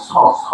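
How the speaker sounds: "স" as a hissed s sound; "স" with s, not sh; dental s demo. Shown as a demonstration. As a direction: say "স, স" as separate dental s syllables. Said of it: "যদি স উচ্চারণ করি".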